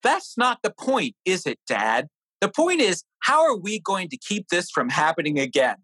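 high-pitched mock-sarcastic retort to Dad; sarcastic teen. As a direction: imitate a wise-ass son answering back, pitch jumping up on each point. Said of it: "I heard this sarcastic voice".

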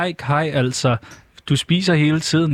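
lightly voiced scolding puppet; Andrea. Shown as a demonstration. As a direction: mildly nag your puppet friend. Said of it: "jeg kan lave dem på samme tid". (let skændende dukkestemme som Andrea)

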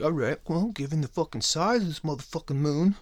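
high nerdy mocking voice of the scientists. Podcast host mocking scientists, in a high nerdy voice. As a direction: lift into a prissy know-it-all tone. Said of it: "they're like".

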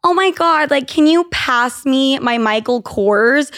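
hammed-up posh girl asking for her bag; mock snooty request for a designer bag; mocking snob. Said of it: "making fun of this bitch".

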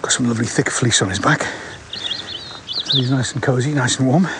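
breathing hard while talking; winded from walking uphill. Real, not acted. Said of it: "Excuse me, getting out of breath".

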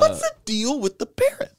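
mock standup observation; Jerry Seinfeld. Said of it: "Sorry to become Jerry Seinfeld just then".

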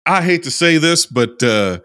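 put-on Southern US accent; Southern drawl accent. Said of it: "I'm working on this accent".

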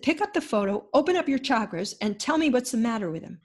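lightly imitated fierce command; fierce healer. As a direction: order her without room to argue. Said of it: "She's so fierce".

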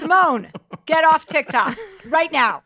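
laughing high scold, slow and loud; scolding sister. Retold or imitated. To her sister scrolling TikTok, a laughing scold. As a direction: order her off the app, half laughing. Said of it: "I'm like".

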